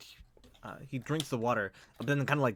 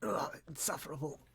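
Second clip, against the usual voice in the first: higher, softer broken complaint; cracked, pained voice; 4 semitones higher, 5 dB quieter than usual. Acted. Lord complaining of burning skin, cracked and pained. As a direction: falter through the burning pain. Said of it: "cracked and broken".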